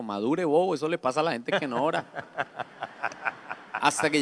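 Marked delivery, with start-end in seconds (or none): 0.0-2.0 quick, laughing scoff; mocking inner voice. Pastor voicing his private thoughts about a depressed man, mocking. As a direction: sneer it fast under your breath, amused. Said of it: "Pero por dentro".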